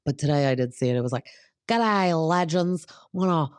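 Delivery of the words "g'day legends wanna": a hint of a mock Australian accent, a bit higher; mixed-up Australian accent, several accents at once; bad Australian accent. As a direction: put on a shaky Australian twang for Brock. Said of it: "I was trying to do his Australian accent".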